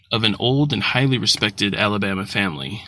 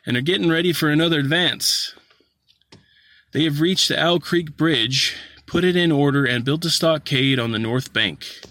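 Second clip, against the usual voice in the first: scout passing on war news, pitched up; lightly voiced horseman eager to share news; 3 semitones higher than usual.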